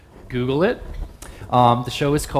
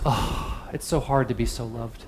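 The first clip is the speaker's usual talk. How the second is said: breathy sighing Oh, then a softer dramatic lament; mock sigh; 4 dB quieter than usual. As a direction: sigh it out like a martyr to affection. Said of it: "he sort of sighs and goes".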